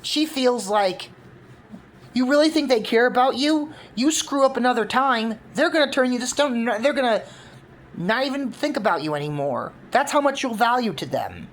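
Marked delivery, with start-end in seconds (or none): 2.1-11.5 higher-pitched, pressing voice; a mock-raised, frustrated plea; upset accusation. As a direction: hurl it at him, wounded and bitter. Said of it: "very upset".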